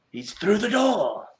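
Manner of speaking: high, drawn-out holler; hollered callout. Pretend. Player calling out to the party, hollered. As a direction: holler it out in play. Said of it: "you can holler that out".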